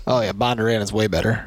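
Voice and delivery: talking while chewing gum. Real, not acted. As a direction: say it around a wad of gum. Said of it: "quit chewing your gum into the microphone".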